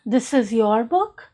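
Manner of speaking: "This is your book" rising on "book" as a question. Shown as a demonstration. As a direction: lift the end of "book" to ask. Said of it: "If I am raising my tone".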